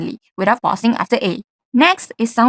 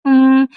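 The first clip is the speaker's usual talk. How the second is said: hesitant hum; 7 dB louder than usual. Shown as a demonstration. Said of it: "hesitations like".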